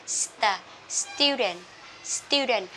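student with the t soft, almost d. Shown as a demonstration. Teacher modelling the soft t, light unaspirated t. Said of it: "các bạn đọc nhẹ chữ tờ".

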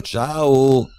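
mock a greeting in a squeaky falsetto; boy teasing his friend with a falsetto "ciao". A narrator's reading. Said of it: "alzando il tono di voce fino a simulare un falsetto".

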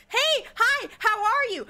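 high, bright mock friendly hello; chirpy greeting. Streamer acting a polite hello for the NPC, chirpy and high. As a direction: act out a cheery small-talk greeting. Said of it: "It's like".

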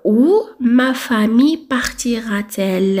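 او ما فامي بارتيرا تيل said slowly and deliberately; teacher modelling the answer slowly; slow correct form. Shown as a demonstration. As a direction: model sentence dictated slowly. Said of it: "تقدر تقول او بارتيرا ما فامي".

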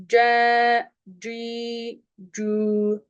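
"C, ci, cü" drawn out with Arabic jim; correct Arabic articulation. Shown as a demonstration. Teacher demonstrating "C, ci, cü" to repeat, Arabic articulation. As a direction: hold each of "C, ci, cü", tongue-middle Arabic sound. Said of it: "Arapça".

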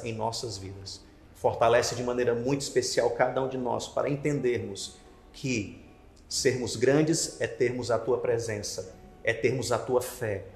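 gentle closing prayer. Acted. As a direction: pray it humbly, eyes closed.

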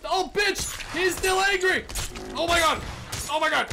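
high, loud startled shouts; real alarm, shouted; panicked yelling. Real, not acted. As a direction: yell as the beast charges you. Elephant charges back.

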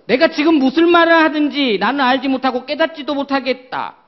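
Peter's loud, high-pitched denial; role-play Peter. Pretend. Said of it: "베드로예요".

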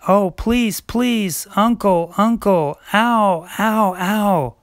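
high, yelping plea in pain; pained pleading. Acted. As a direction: beg uncle while hurting. Cub begging while being hurt.

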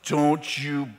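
low, quiet, slow stern warning; a mom laying down the rule; stern mother. Retold or imitated.

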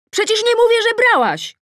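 high-pitched, loud irritated yell; shout. A narrator's reading. Arguing with Tosia upstairs, shouting. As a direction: yell back, exasperated. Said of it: "krzyczę".

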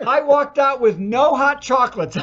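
real laugh at own story. Real, not acted. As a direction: crack up while telling it. Laughing at his own punchline.

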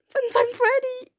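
a lightly voiced animatronic entertainer; character voice. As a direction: announce yourself like a cartoon host. Character voice announces a name.

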